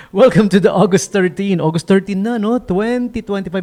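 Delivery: loud, high DJ welcome; radio announcer. Acted. DJ welcoming listeners to August thirteen, announcer voice. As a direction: announce the date like a radio host.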